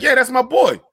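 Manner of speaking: put-on "Yeah, that's my boy" bright and high, affectionate; friendly that's my boy. Shown as a demonstration. Showing the friendly way to say boy, affectionate. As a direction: greet a buddy fondly with "boy". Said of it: "if he was like".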